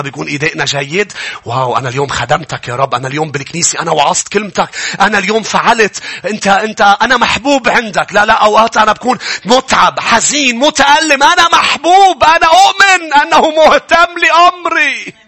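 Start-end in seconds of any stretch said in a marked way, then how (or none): 1.4-8.1 mock boastful believer. Boasting believer addressing God. 8.1-15.1 high, loud, climbing preacher's cry; full-force preaching. Acted. Preacher to his congregation about God's love, full-force preaching.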